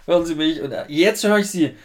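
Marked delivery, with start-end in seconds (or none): 0.0-0.6 calling out. Retold or imitated. Own shouting into watch. 0.9-1.8 operator voice. Retold or imitated. Operator retold.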